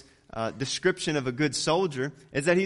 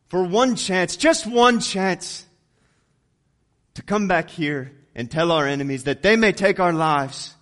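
William Wallace rallying speech; 4 dB louder than usual. Retold or imitated. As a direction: rouse the troops before battle, building. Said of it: "William Wallace says".

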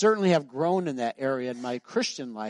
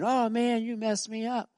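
complaining youth; 7 semitones higher than usual. Retold or imitated.

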